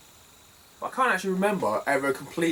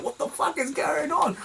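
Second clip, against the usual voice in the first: much higher, slower mock outburst; mock shrill outburst. Imitating the crazy lady at the car boot, much higher mock outburst. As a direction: squeal it like the frantic lady. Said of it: "it's like".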